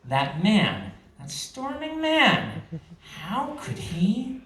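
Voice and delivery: mild suppressed anger. Acted. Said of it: "An anger stirred deep inside her".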